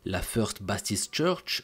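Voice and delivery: English said slowly with a French accent; careful English words in a French accent; broken English accent. Real, not acted. French narrator naming the Texas church, broken English accent. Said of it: "avec mon anglais éclaté".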